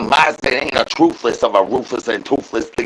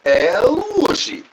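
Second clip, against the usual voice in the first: slow, much higher El Whooshy with a rise; high drawn-out call; 11 semitones higher, much slower than usual. Pretend. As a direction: squeal the call upward, slowly. High rising catchphrase take.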